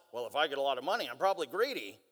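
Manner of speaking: lightly voiced low mock musing; imagined thought. Preacher voicing a listener's thought about money, low mock musing. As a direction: drop low to mimic someone's reasoning.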